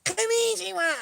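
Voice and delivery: high mock device chatter; headphone lady voice. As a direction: rattle it off like the nagging headphone lady. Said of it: "She be like".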